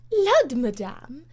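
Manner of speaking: loud, slow hearty cry; bluff exclamation. Acted. Lady Portarles scolds the Comtesse, loud and slow. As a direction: bark it out heartily.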